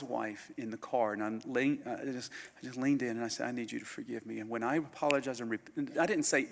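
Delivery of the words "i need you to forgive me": softer, humble plea. Retold or imitated. Preacher recalling his plea to the man's wife, soft. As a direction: ask it gently.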